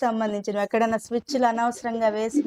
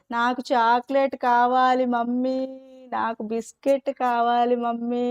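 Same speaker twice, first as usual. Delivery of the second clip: put-on whining child. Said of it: "అంటుందేమో".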